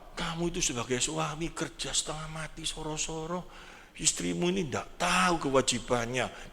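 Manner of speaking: lightly voiced tempter coaxing the husband; tempting devil voice. Preacher voicing the devil egging on an angry husband, soft murmuring tempter. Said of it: "setannya ngomong kayak apa".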